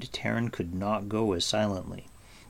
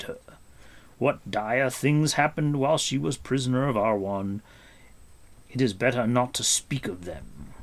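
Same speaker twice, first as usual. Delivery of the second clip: higher, measured voice of a stern wise warrior; grave warrior voice; 5 semitones higher, 3 dB louder than usual. Acted. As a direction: speak as a grave old warrior explaining. Gwydion voiced by reader.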